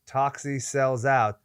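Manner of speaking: slow setup, then a high loud kicker; hammed-up comic character. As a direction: draw out the summary, then blurt the punchline. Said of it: "I have to do a character voice".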